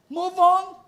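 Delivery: high, pushed command; firm urging. Real, not acted. Pastor urging grieving listeners, firm high command. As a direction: push them to move on.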